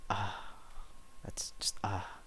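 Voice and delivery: a soft, choked whisper, nearly in tears. Retold or imitated. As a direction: hold the tears in and breathe the words. Emotional scene, near tears.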